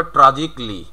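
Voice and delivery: ট্র্যাজিকলি said "tra-jik-li"; silent A. Shown as a demonstration. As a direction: drop the A in ট্র্যাজিকলি, ending "-jikli". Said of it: "তাহলে হবে".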